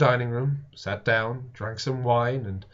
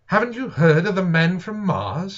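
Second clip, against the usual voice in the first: higher, louder, urgent question; 7 semitones higher, 5 dB louder than usual. A narrator's reading. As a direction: press them urgently with the news. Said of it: "said I".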